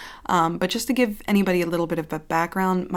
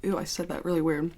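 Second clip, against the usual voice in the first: retainer lisp; 4 dB quieter, faster than usual. Real, not acted. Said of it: "my retainer".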